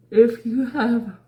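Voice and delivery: words stretched by a yawn. Real, not acted. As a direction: talk through a yawn. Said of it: "can't stop yawning".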